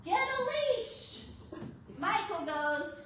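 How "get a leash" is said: high yelled command; retold scream. To husband across the yard, a high shout. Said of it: "and I scream".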